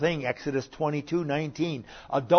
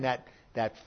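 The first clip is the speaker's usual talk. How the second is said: ordinary delivery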